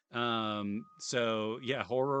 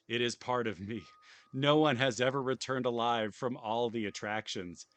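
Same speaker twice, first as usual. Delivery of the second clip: louder, theatrical showman read; hammy villain host; 3 semitones higher, 7 dB louder than usual. Acted. Streamer voicing the owner's taunting invitation, hammed-up. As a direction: sell the park like a gleeful villain. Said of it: "I don't know if I can do Michael Reynolds justice".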